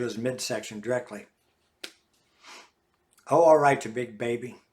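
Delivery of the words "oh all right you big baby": mild mock exasperation; exasperated. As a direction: give in with a loud sigh-like start. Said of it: "somewhat exasperated too".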